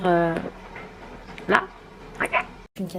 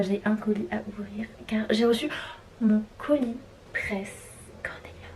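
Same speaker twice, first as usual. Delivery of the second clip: whispering; 6 dB quieter than usual. Real, not acted. Whispered before opening package.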